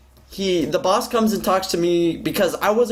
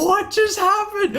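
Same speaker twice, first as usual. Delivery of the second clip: high, stunned disbelief; baffled. Retold or imitated. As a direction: sound completely thrown. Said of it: "It was so crazy".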